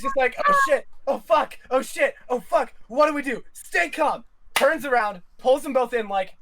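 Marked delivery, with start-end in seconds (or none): 0.5-4.2 higher, rushed panicked muttering; mock panic. Louis panicking backstage, mock panic. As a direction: fake a quick panic.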